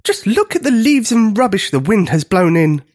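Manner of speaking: high, big booming giant voice; giant's booming voice, pitched high. A narrator's reading. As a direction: boom it out like a giant. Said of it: "boomed a giant voice".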